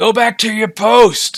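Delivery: screaming, very high and very loud. Voicing the captain yelling back through the door: screaming. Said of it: "You hear the captain scream back to you".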